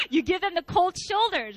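high laugh running into the words. Real, not acted. Preacher admitting to listeners, laughing at her own pettiness. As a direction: giggle through the confession. Joking about petty unforgiveness.

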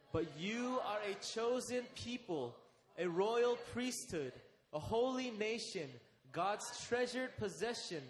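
slow, measured reading of the verse in unison; scripture read aloud together. Shown as a demonstration. Pastor leading the church in reading verse nine, slow and measured. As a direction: read it slowly with the whole congregation. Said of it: "Can we just read that together?".

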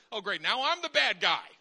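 sarcastic and exasperated; sarcastic frustration. Retold or imitated. Father to his crying daughter, sarcastic and fed up. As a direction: sigh it out as the bad guy. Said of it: "I said".

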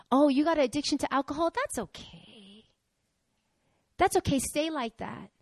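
coddle them in mock sympathy; mock acceptance.

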